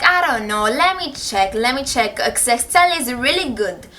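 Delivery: lightly mocked Asian-accented teacher; imitated Asian accent. Teacher checking her Excel grades, imitated Asian accent. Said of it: "tell you guys how she was acting".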